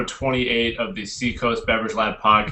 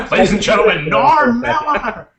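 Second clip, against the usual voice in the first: announcer voice; 14 semitones higher, 5 dB louder than usual. Acted. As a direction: bellow it like a boxing-ring announcer. Introducing the next guest.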